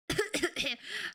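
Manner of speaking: hacking cough. Acted. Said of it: "spice stuck in my throat".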